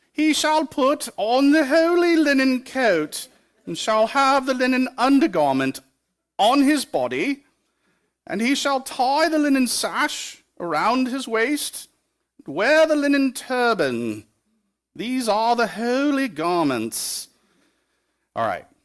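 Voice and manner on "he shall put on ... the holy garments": very high, slow, drawn-out comic English accent. Reading a Bible verse about the high priest aloud, Monty Python English accent. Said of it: "I really want to read this in like a Monty Python English accent".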